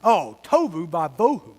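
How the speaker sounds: slow, fed-up sigh of tohu vavohu; everything's falling apart, mild mock curse; mock exasperation. Shown as a demonstration. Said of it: "great word to say when you don't want to use a bad word".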